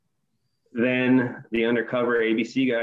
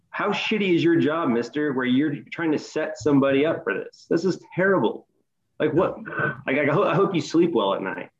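raised pitch, indignant but not shouted; retold scolding; 4 semitones higher than usual. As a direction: re-enact shaming someone for their job.

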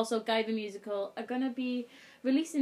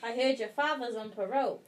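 Welsh accent, second attempt, with a laugh; amused mock Welsh accent; improved Welsh accent; 2 semitones lower than usual. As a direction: lilt it in Welsh while amused. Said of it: "That's better".

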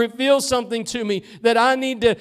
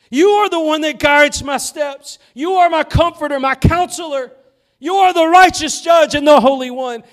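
raised, louder voice of someone earnestly praying; pleading prayer; 4 semitones higher, 5 dB louder than usual. Acted. Preacher acting out a believer praying aloud, earnest and raised. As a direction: plead with the Lord, asking for direction.

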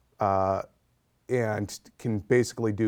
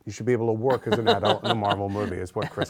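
laughing; faster than usual. Real, not acted. Joking about child actors.

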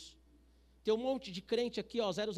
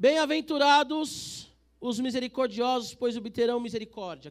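loud, proclaiming the verse; preaching at full force; 3 semitones higher, 11 dB louder than usual. Acted. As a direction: declaim it from the pulpit. Preacher reading verse loudly. (pregação em voz alta e forte)

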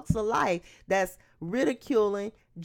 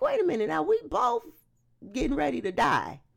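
indignant challenge; 5 semitones higher than usual. Acted. Criminal voiced checking another.

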